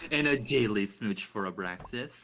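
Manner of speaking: mock streamer's redeem announcement; mocking imitation. Friend copying the streamer's daily smooch, mocking imitation. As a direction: tease by copying a friend's sign-off. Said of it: "don't mock me".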